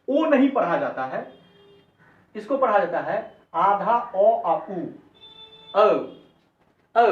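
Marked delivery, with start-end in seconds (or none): 5.7-7.1 ओ gliding from o into u; English O diphthong. Shown as a demonstration. Teacher models the English letter O, ओ gliding to u. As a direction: say ओ as "o-oo" in one sound. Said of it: "ऐसे बोलना है".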